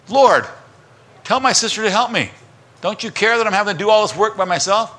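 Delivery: high, loud frazzled plea; complaining Martha. Retold or imitated. Busy Martha complaining to Jesus, high and loud. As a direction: whine at Jesus like an overworked sister. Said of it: "And Martha goes".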